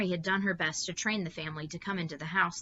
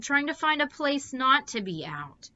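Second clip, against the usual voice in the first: a louder, fretful wail; 9 semitones higher, 6 dB louder than usual. A narrator's reading. Meg wails at her mother, fretful and loud. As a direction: plead in a frightened whine. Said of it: "Meg wailed".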